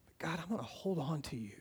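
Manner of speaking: very soft, quick vow to God; hushed prayer. Acted. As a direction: drop to a near-whisper, praying.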